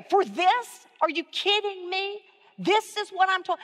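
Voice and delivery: mock-incredulous rant; sarcastic disbelief. Shown as a demonstration. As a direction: act out your own disbelief at the work. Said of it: "put some sarcasm in it".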